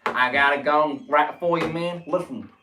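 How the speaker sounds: put-on stereotypical American accent; cliché American accent. Shown as a demonstration. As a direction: rattle it off in a hammy American accent. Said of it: "The cliche accents".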